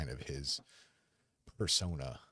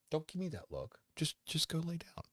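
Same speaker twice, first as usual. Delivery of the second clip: much higher, fond telling-off; mock scolding; 13 semitones higher than usual. Real, not acted. Owner shoos his dog to bed, high mock scold. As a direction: shoo the dog with playful reproach.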